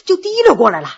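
plain reading voice

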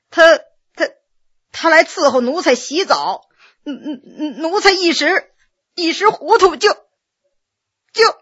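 halting, stuttering confession; embarrassed servant faltering and repeating words; shamefaced stammer. Acted. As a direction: stumble over each word, unable to admit it.

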